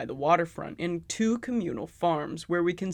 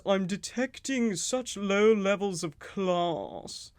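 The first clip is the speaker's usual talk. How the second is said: slow, lightly voiced snobbish robot; snooty robot butler; 2 semitones higher, much slower than usual. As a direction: drawl it like a haughty machine. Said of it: "the robot goes".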